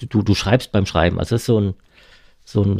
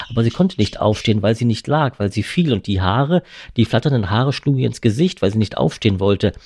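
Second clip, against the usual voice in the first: story narration. A narrator's reading. Reads novel aloud.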